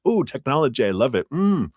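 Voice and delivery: high gushing coo over technology; mock swooning delight. Heart mockingly gushing about technology, high and dreamy. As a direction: gush like a lovestruck fan. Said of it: "the heart wasn't like".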